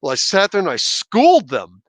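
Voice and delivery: boastful, punching the word schooled; mock bragging. Teacher parodying a braggart to his viewers, mock bragging. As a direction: pretend to brag about showing them up. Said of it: "If I was bragging, I'd be like".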